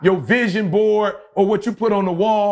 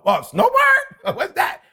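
mocking disbelief. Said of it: "They was like".

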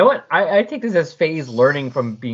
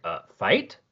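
mock scared kids; 8 semitones higher than usual. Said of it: "all of a sudden they're like".

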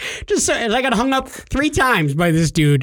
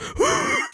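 imitated long exhale; soft, drawn-out puff of breath; blowing out smoke; 4 dB quieter than usual. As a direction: blow out imaginary bong smoke. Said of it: "blowing out the bong smoke".

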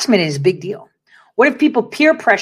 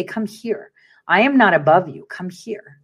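gentle invitation. Retold or imitated. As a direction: beckon them in, tender and hushed. Offering a hand, inviting people closer.

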